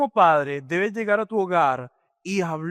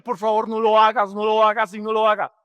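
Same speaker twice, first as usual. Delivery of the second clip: put-on pleading child; 2 semitones higher, 4 dB louder than usual. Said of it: "niños que se ponen a llorar".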